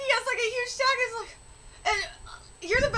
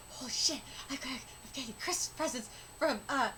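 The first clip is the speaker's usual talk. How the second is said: happy amazement; 3 semitones lower, 4 dB quieter than usual. Retold or imitated. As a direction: start hushed, grow more excited. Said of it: "like, so happy. He's like".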